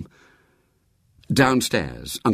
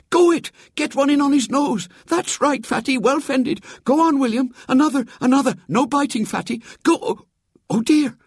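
put-on high, loud old lady egging on a fight; excited cheering; 3 dB louder than usual. Great aunt cheering William on in the fight, high and loud. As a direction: shout encouragement at the wrestling boys.

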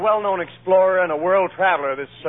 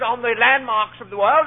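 lightly voiced lecturer, raised pitch; lecturing explorer; 4 semitones higher than usual. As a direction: address the ladies' club as a world traveler, a little higher. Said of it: "he's talking at a ladies' club".

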